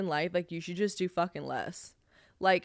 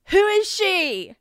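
drawn-out outrage; 12 semitones higher, 9 dB louder, much slower than usual. Real, not acted. Outraged at her drawn character.

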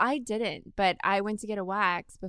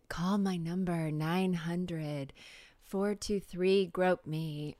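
slow, lightly sultry hotline come-on; phone-line seductress; slower than usual. Acted. Co-host parodying chat-line ladies, slow teasing sultry voice. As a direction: drag it out like a hotline ad. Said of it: "one of those ladies from the".

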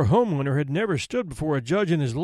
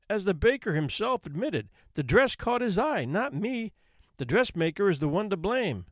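protesting woman; 3 semitones higher than usual. Acted. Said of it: "she protested".

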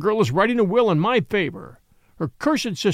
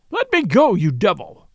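high, loud furious roar; thundering; 4 semitones higher, 4 dB louder than usual. Acted. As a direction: roar it while struggling. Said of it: "thundered Kalon".

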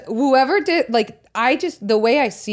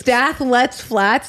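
slow careful repeat; 3 semitones higher, much slower than usual. Real, not acted. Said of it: "former lisp".

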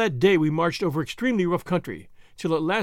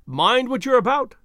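higher and louder warning shout; raised warning call across the camp; calling after; 7 semitones higher, 5 dB louder than usual. A narrator's reading. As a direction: call it after someone walking away. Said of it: "called Vrouw Prinsloo after me".

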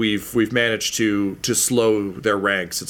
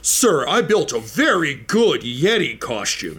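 Shadlock; 4 semitones higher than usual. Acted. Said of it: "And Shadlock's like".

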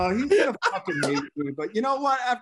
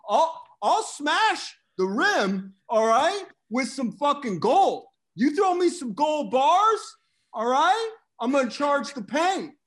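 Sam Tripoli impression. Host boasting to the guys about Bitcoin, a brash cocky Sam voice that builds up. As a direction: brag like a cocky stock picker who gets more fired up. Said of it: "That was the best fucking Sam Tripoli impression".

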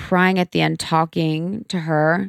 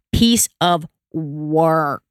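drawn-out emphasis; much slower than usual. Real, not acted. Describing her difficult mother.

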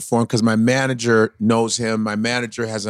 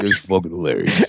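lower, tough Italian goomba voice; 7 semitones lower than usual. Retold or imitated. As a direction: growl it like a big mob guy. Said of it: "I like the head tilt and the whole body movement".

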